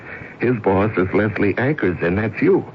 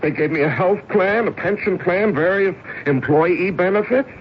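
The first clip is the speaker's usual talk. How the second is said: higher, impassioned insistence on the company; fervent defense; 9 semitones higher than usual. Acted.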